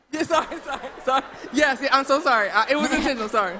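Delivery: high, loud, hurried apologies; flustered apology. Real, not acted. Speaker apologizing to the audience for the wordplay, flustered.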